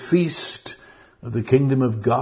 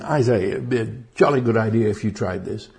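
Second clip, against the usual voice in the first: put-on quick, polite British upper-class accent; a British gent tossing off a suggestion; mock British accent; faster than usual. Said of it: "he's not very British here".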